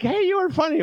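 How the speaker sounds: high, mock-cheerful compliment; mock praise. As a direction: squeak out a fake-friendly compliment. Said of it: "they came afterwards like".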